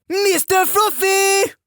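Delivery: high, slow drawn-out yell; yelled call. Retold or imitated. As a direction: call it out like a drill sergeant. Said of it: "she would yell out".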